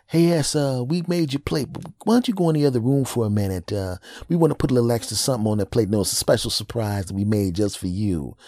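high, fast, sugary fake innocence; sneaky sibling voice. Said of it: "it's like".

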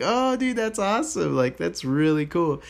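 genuinely thrilled reaction; excited. Retold or imitated. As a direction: gush over his bargain. Excited reply to old man.

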